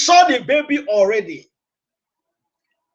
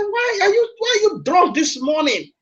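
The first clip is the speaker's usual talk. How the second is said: stern prophet; 6 semitones higher than usual. Acted. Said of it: "He said".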